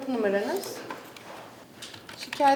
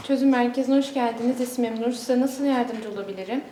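customer service voice; 5 dB louder than usual. Acted. Call centre greeting, repeated by agents.

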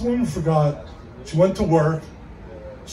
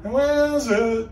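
parrot voice; 6 semitones higher, slower than usual. Acted. Parrot repeating itself.

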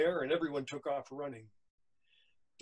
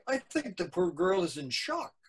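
lightly voiced nurse, raised pitch; concerned nurse; 5 semitones higher, 5 dB louder than usual. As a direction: fret a little over the poor girl. Nurse worries over the girl.

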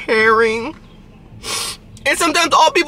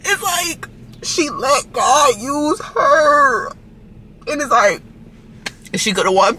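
crying; 3 semitones higher, slower than usual. Real, not acted. Vlogger tearing up over a kindness video, crying. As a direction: voice cracking into real tears, slow.

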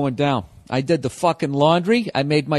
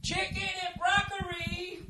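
high, soft slow mock Asian accent on "Chicken and broccoli"; mock Asian accent, drawn out; 13 semitones higher, 13 dB quieter than usual. Shown as a demonstration. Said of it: "I can't say broccoli without, uh, an Asian accent".

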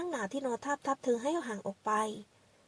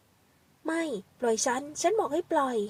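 louder, slow, desperate pleading; begging him to let go, higher and louder; frightened protest; 4 semitones higher, 4 dB louder, much slower than usual. Acted. Girl struggles against the man. (หญิงสาวร้องขอให้ปล่อยอย่างหวาดกลัว)

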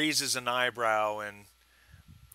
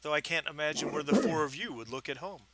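louder, lightly British sneer; snooty clerk in a light British accent; 5 semitones higher, 4 dB louder than usual. Acted. Clerk teases the lost-looking group, light British accent. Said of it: "with a very British accent".

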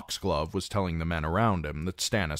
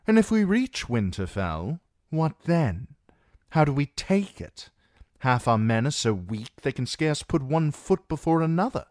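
a knight's voice, higher, reasoning hard; Massey arguing; 8 semitones higher, 3 dB louder than usual. A narrator's reading. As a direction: argue against the march, pressing each question. Massey argues in character.

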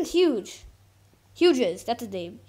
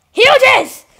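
loud, much higher yell of "Hughes!"; shouting a name; 11 semitones higher, 14 dB louder than usual. Real, not acted. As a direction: call him out in frustration. Yelling a player's name.

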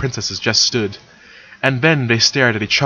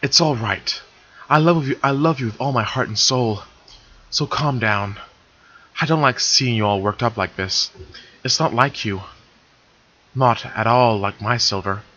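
tender reassurance; 3 dB quieter than usual. Acted. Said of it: "embracing her in a deep hug".

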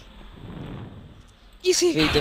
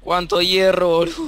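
excited; 6 semitones higher, 6 dB louder than usual. Real, not acted. Excited about iron haul.

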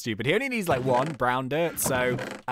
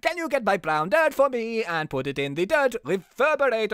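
higher, hammed-up attempt at Mexican accent; bad Mexican accent; 6 semitones higher than usual. Rocky sending the detective for dirt, bad Mexican accent. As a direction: do a badly faked Mexican accent. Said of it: "Or maybe, like, Mexican".

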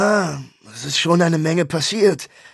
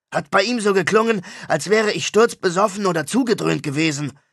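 ranting rock star; 5 semitones higher than usual. Acted. Star complaining to his brother about slander, aggrieved rant. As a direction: vent about the lies in the press. Mosch rants about the news.

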